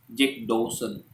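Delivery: "Jack Dawson" said the English way, Jeck Dowson; "Jack Dawson" with an English E vowel; English pronunciation. Shown as a demonstration. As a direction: say "Jack" as JEK like a westerner. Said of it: "Itu cara orang barat melafalkan Jack Dawson".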